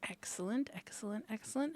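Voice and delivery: hissed gleeful villain whisper; sinister whisper. Acted. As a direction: whisper it like a scheming vampire. GM whispers excellent.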